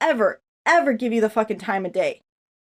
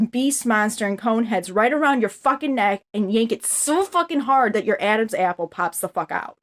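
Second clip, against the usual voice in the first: real anger. Real, not acted. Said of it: "That's how mad I am at you".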